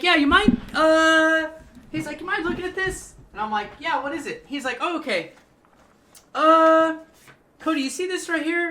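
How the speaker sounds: high, loud put-on manager voice; new manager's voice. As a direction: pitch the boss up high and fake-friendly.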